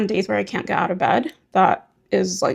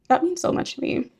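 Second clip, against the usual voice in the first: real emotion breaking through a thank-you; sincerely moved, fighting back tears; trying not to cry; 9 semitones higher than usual. Real, not acted. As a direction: voice jumps high, close to tears. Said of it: "And I'm trying not to cry".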